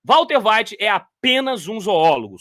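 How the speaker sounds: slow, belittling line; unhurried mock contempt; mock scornful. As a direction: drag it out to belittle him. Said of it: "Só faltou ele dizer".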